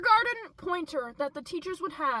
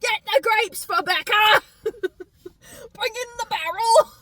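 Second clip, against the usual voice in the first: hammed-up royal command; 8 semitones higher, 8 dB louder, slower than usual. Voicing Thor ordering grapes.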